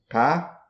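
"K" with a long, open A. Shown as a demonstration. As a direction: stretch the "A" of "casa". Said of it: "A da primeira sílaba é um A longo e forte". ("K" com A longo e aberto)

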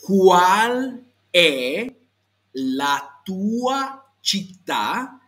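"città" with a clear ch and stressed final a; repeat-after-me model. Shown as a demonstration. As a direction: stretch each word of "¿Cuál è la tua città?" for learners. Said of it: "hazlo conmigo".

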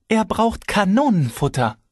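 high sharp interruption; cutting in. A narrator's reading. Wife interrupting her husband, sharp. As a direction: cut him off hard. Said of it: "fiel Svetlana mir ins Wort".

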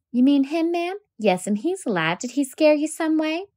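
gently. Acted. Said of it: "and he said gently".

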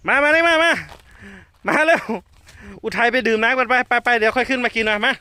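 very high, loud call. Real, not acted. Mahout calling Uthai over, high loud call. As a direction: call her over from far off.

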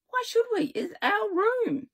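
high, slow, stubborn protest; defiant high voice. A narrator's reading. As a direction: dig in, high and drawn out. Defiant kid insists.

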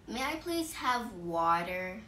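slow, polite request at normal volume; gentle-mannered, unhurried asking; caring, polite. Shown as a demonstration. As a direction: ask nicely, taking your time. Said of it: "because it sounds caring".

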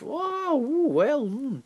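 high oohs and hmms; impressed reaction. Retold or imitated. Reviewer acting out reaction to action pieces, impressed. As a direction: act out being mildly wowed. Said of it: "action pieces were quite sort of".

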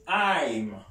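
I'm said as one short syllable; contracted I'm. Shown as a demonstration. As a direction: clip I am into I'm. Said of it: "Repeat after me".

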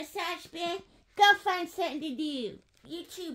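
softened pretend order; quiet voice. Shown as a demonstration. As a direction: send the toy off in a hushed indoor voice. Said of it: "let's do our quiet voice".

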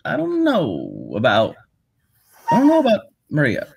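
lightly voiced Obama with long halting pauses; Obama impression. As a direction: pause like Obama, thinking aloud. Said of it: "the way Jake would do his accent".

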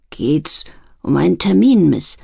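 timid whisper. Acted. Little clerk timidly whispering to the customer. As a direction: ask it under your breath.

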